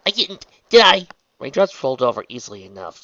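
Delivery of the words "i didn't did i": high, loud worried question; alarmed. A narrator's reading. Trixie fears she broke Raindrops' wing, alarmed. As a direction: dread rising into the question.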